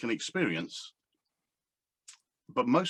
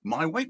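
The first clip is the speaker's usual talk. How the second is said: "My weight?" asked with a rise on "weight"; a coach questioning a client's wording, with a rising tone on "weight"; 4 semitones higher, 4 dB louder than usual. Shown as a demonstration. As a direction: question the word "My" as a coach would. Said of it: "Why would I want to lose something that's mine".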